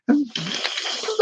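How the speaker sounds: a sudden high-pitched giggle. Real, not acted. To the audience about his old comic, high giggle.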